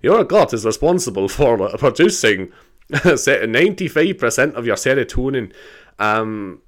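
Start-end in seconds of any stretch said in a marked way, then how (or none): 0.0-5.5 slow mock Scottish advert read; put-on Scottish accent for a health ad. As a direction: imitate a Scottish ad, drawn out. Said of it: "in a Scottish accent".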